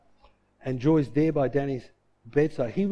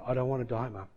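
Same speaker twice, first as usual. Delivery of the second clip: low, soft imitated plea; weak plea; 4 semitones lower, 7 dB quieter, faster than usual. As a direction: plead faintly to your mum. Son repeats plea from coma.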